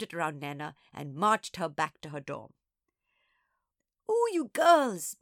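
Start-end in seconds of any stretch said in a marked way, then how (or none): 4.1-5.2 high, slow, loud exclamation; breath-catching, high-pitched delight; delighted gasp. A narrator's reading. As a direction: gasp it after a good laugh. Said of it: "Missus B gasped".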